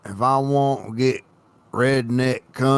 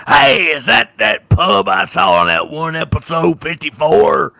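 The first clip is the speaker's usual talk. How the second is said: loud, higher Southern US tourist voice; 6 semitones higher, 6 dB louder than usual. Pretend. American tourist on a murder-mystery tour shouts in Southern accent. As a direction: holler it like a Southern tourist spotting a pub. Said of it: "and I talk like this the whole time".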